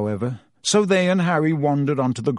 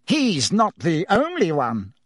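puffed; 5 semitones higher than usual. Acted. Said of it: "puffed Fudge".

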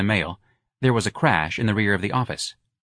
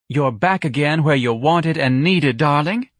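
higher, slower, sugary matron's coo; soothing a child; 6 semitones higher, 4 dB louder than usual. A narrator's reading. Society matron cooing over the old clerk. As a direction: coo as if comforting a small child. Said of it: "as if she were comforting a child".

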